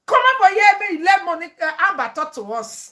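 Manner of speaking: loud, high call from the crowd; mock call out. Fans calling her up, loud and high. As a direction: call her up like an eager audience.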